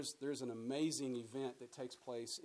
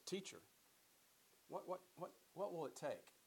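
raised, urgent asking voice; eager pleading seeker; 5 semitones higher than usual. Retold or imitated. Young ruler pleading with Jesus, eager and raised. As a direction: beg the teacher for an answer.

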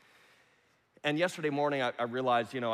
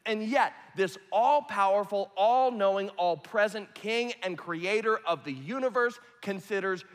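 rising, louder preacher's build; preaching; 5 semitones higher, 6 dB louder than usual. Acted. Pastor stirring the congregation, booming preaching. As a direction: preach it, building to a loud climax.

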